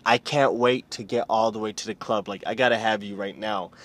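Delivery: mock eager man. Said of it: "he's like".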